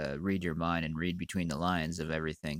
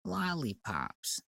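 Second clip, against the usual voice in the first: put-on high, slow, soft girlish sing-song; little girl voice; 7 semitones higher, 6 dB quieter, much slower than usual. Mimicking the little girl from his videos, high and childish. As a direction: coo it like a small child. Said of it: "the little girl goes".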